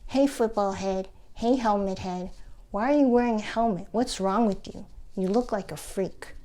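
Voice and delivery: imitating kids' taunts; mild mock schoolyard teasing; teasing kids. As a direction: lightly act out kids picking on a classmate. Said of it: "the other kids teased me relentlessly".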